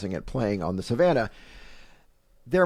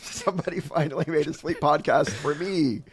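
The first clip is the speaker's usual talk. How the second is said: sleepy whale; 6 semitones higher than usual. Pretend. Voicing a grateful sleepy whale.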